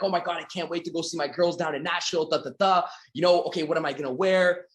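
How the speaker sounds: bubbly, rushing chatter; giddy about the trip; excited. Pretend. Jennifer thrilled about Nashville convention, excited chatter. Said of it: "Jennifer's super excited".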